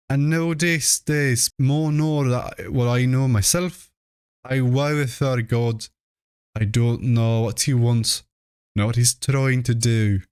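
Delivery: a hint of a frightened albino mother confiding; fearful complaining old woman. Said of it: "complained to Mammy Bishop of being afraid".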